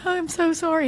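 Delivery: hammed-up fake contrition; mock apology. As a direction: tease him with an overdone apology.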